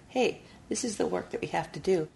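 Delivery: plain reading voice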